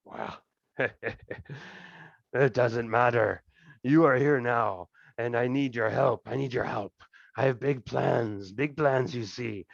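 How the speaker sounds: boisterous lord, lightly voiced, slow in places; a hint of a greasy, jovial thug king; fat crime king. Thieves' king welcoming the party to his throne room, lightly voiced and jovial.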